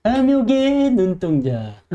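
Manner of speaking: slow, drawn-out greedy voice; hammed-up greed; greedy eyes. Shown as a demonstration. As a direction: stretch it out like a hungry gaze. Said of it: "눈 잘 보입니까?".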